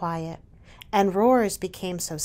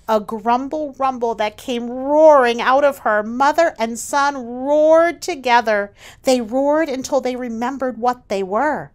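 roaring narration; 3 semitones higher, 7 dB louder than usual. A narrator's reading.

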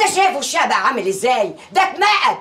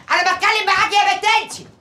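scolding call; 4 semitones higher than usual. Acted. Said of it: "بتزعقوا ليه".

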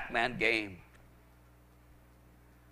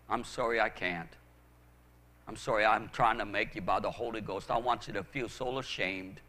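subdued confession; 5 semitones lower, 5 dB quieter than usual. Real, not acted. Subdued confession and apology in sermon.

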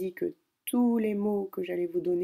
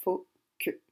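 whisper. Shown as a demonstration.

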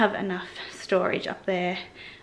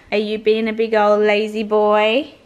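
louder doting call to the dog; loud pet talk; 7 dB louder than usual. Real, not acted. To her dog Alfie on the couch, loud doting call. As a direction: tease the lazy dog out loud.

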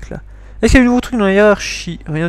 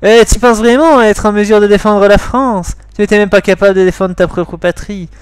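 attack the accused as a prosecutor would; 3 semitones higher, 4 dB louder than usual. Acted. Prosecutor doubts the soldier's loyalty, loud accusing challenge. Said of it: "la voix du procureur".

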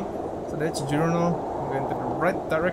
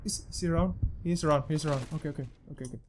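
nervous hush; 6 dB quieter, much faster than usual. Real, not acted. Hiding from ghost.

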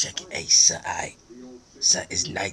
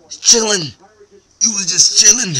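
high, loud disbelieving shout; outraged yell; 12 semitones higher, 9 dB louder than usual. Acted. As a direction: yell it in outrage, higher and louder. Outraged at mouse.

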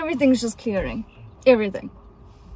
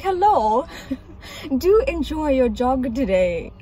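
Shakespearean. Retold or imitated. Retelling the taxi man's greeting, lightly Shakespearean. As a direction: ham up a stranger's grand hello. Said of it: "he said it, like, so, like, Shakespearean".

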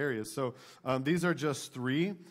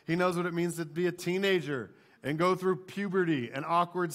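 preaching at full force; 4 semitones higher than usual. Real, not acted. Preacher lists what Jesus knows to the church, rousing sermon delivery. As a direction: drive each line home to the congregation.

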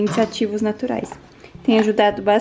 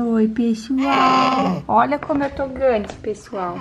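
put-on mom's higher, slow, calling baby voice; voicing the baby; 3 semitones higher, slower than usual. Mom speaking for baby to viewers, higher calling baby voice.

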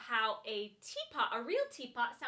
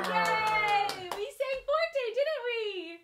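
high bright praise; happy praise after singing; excited; 9 semitones higher, 8 dB louder, much slower than usual. Real, not acted. Celebrating after song.

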